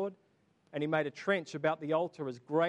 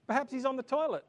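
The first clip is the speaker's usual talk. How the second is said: laughing; 8 semitones higher than usual. Real, not acted. Preacher laughing at the joke.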